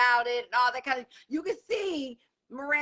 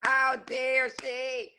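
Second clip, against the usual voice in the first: slow indignation; much slower than usual. Real, not acted. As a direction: let disbelief sink in. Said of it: "repeated with different force".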